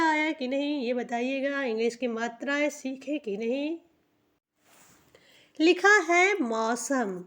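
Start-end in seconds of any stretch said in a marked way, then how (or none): 5.6-7.2 slow, stretched reading of मौसम; slow dictation. Shown as a demonstration. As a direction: announce the word मौसम slowly to the class. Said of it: "slow reading of the word". (धीरे से शब्द पढ़ना)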